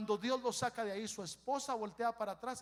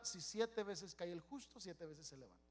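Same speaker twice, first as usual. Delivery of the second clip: mocking defeatist; 5 dB quieter than usual. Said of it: "se mantienen caídos hablando esa escritura".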